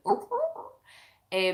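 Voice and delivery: repeated dog-like "er" grunts; cartoon dog imitation; Scooby-Doo noise. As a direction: imitate a cartoon dog's "ruh-ruh". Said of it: "so like Scooby-Doo".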